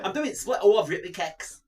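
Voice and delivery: high, silly comic presenter; Keith Lemon impression. Pretending the splits went wrong, high comic impression. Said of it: "Keith Lemon".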